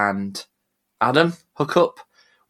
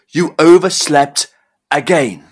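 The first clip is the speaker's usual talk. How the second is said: incredulous; 3 semitones higher, 5 dB louder than usual. Acted. Boss repeating excuse in disbelief.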